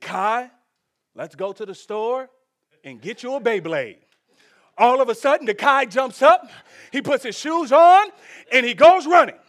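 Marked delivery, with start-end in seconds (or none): 0.0-4.0 very quiet, deep, hushed, offhand throwaway murmur. Showing how you spoke to the guy watching TV, retelling a quiet remark. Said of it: "I don't say this very loud".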